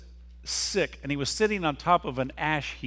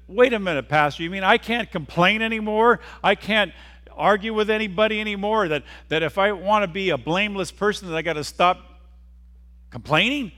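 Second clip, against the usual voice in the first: higher, louder protesting churchgoer; raised voice, balking at the idea; incredulous objection; 5 semitones higher, 5 dB louder than usual. Acted. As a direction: protest to the pastor in disbelief. Congregant objects to the pastor.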